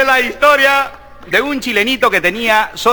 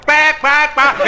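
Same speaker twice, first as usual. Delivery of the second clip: duck quack; 4 semitones higher, much slower than usual. Retold or imitated. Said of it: "se despiertan los patos".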